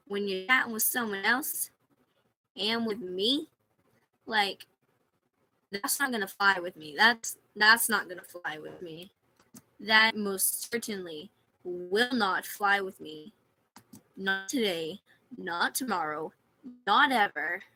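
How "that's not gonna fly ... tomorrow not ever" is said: building firm warning, louder at the end; stern put-down rising to a loud not ever; firm scolding. Real, not acted. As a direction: lay down the law, each not harder.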